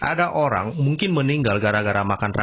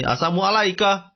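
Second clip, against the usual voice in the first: higher, imitated jeer; mocking greeting; 6 semitones higher than usual. Mockers twisting the greeting into a curse, mocking. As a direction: greet them as a taunt. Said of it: "dibilang sini".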